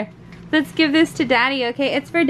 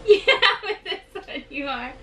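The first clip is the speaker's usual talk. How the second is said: laughing; 4 dB quieter, faster than usual. Real, not acted. Laughing while answering.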